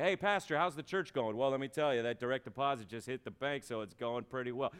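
lightly voiced paycheck-happy pastor; casual mock pastor making small talk; a hint of a self-satisfied employee; money-minded pastor. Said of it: "imagine if pastors talked like that".

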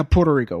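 "Puerto Rico" with an English r; English pronunciation. Real, not acted. Retreats to English pronunciation after teasing.

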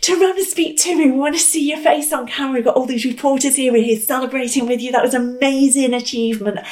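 fast, high pleading call; insistent reporter. Retold or imitated. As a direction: demand he turn round. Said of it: "So I said again".

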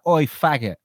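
loud, high mock yell from a car window; imitated street heckler's shout. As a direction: mimic an aggressive passer-by shouting. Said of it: "wind down their windows and shout".

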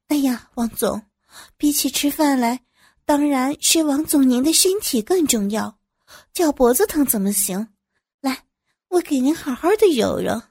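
hurried fussing. Acted. Employee insists on tending the boss's ankle, hurried fussing. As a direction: fuss insistently over the boss's health. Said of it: "我急急忙忙道".

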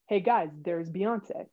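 slow, understated announcement; calm, unhurried retold remark; super calm. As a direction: point out a star as if it were nothing. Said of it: "I'm, like, super calm".

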